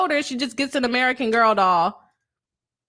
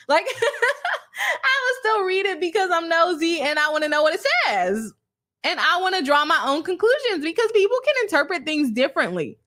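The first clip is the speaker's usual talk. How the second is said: higher, laughing as she talks; 5 semitones higher than usual. Real, not acted. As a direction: giggle through the words. Laughing at her own nosiness.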